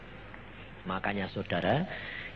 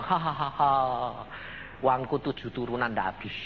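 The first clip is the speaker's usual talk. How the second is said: retold scornful laugh; 2 semitones lower, 3 dB quieter than usual. Father laughs off his son's warning, scornful mock laugh. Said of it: "Diketawai, saudara".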